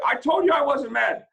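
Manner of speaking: triumphant shout. A narrator's reading. Boy shouting to the unbelievers, loud and high. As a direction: throw it at the doubters. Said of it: "I shouted".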